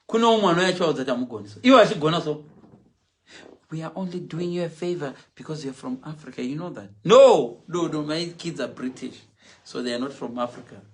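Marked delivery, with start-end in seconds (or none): 3.7-6.9 a touch of a patronising official, softer; condescending official. Retold or imitated. 7.0-8.0 a sharp, loud no; rejecting the claim loudly. Real, not acted. Emphatic denial.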